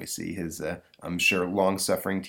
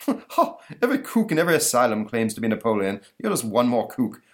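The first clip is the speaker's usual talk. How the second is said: scoffing monster voice; 3 semitones higher, 3 dB louder than usual. Acted. The monster mocks Napoleon.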